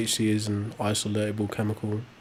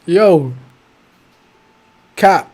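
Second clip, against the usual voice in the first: calling out; 7 semitones higher, 11 dB louder than usual. Real, not acted. Calling out to caller.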